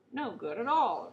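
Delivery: loud, slow gleeful roar; happy roar. A narrator's reading. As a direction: roar it with delight. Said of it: "roared the king happily".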